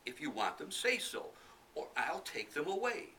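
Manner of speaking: high, loud taunting; cheeky boy. Acted. Black Sambo warning the tigers, high loud taunt.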